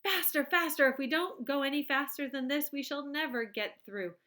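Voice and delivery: high, loud urging; urging Wonka. A narrator's reading. Wonka urging the elevator to speed up. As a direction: egg the elevator on.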